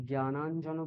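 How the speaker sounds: জ্ঞানাঞ্জন as gya-naan-jano; hard gy at the start of জ্ঞানাঞ্জন; wrong Bengali pronunciation. Shown as a demonstration. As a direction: say জ্ঞানাঞ্জন without nasal ny. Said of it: "বলবো না".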